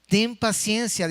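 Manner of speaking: pleading quote. Acted. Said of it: "dice el versículo veintiséis".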